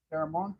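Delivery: "Terramont" with final syllable as "mont"; Mexican name Terramont. Shown as a demonstration. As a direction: end "Terramont" on "mont", not "mount". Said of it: "in Mexico".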